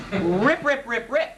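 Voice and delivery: punchy, repeated ripping noise; imitated ripping. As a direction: mimic seams tearing one after another. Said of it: "and I hear this".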